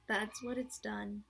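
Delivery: slow, lightly gloomy donkey voice; gloomy Eeyore. Acted. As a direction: drag it out as Eeyore.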